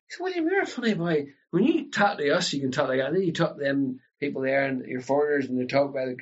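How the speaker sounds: mock relatives ribbing him; teasing family. Relatives tease William about switching speech, lightly voiced. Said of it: "my family and my relatives ... would have said to me".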